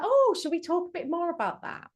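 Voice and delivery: high, light, carefully calm question; a steady, soothing counsellor voice hiding shock; calm on the outside. Retold or imitated. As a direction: keep it gentle while alarmed inside. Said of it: "outside I was like".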